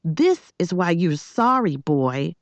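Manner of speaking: high, emphatic telling-off; angry scolding. A narrator's reading. Girl woken at night telling boy why he's sorry, scolding.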